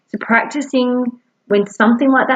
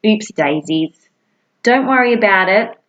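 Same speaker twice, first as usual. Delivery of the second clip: reassuring self-talk. Shown as a demonstration. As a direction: comfort yourself like a kind friend would. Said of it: "all you need to do is say".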